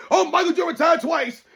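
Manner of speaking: high mock yell, imitating an obsessed player; mock announcing. Fan mocking Kevin Durant's imagined wake-up routine, mock announcing. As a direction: mimic someone excitedly proclaiming it to everyone. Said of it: "every day you wake up, you're just gonna say".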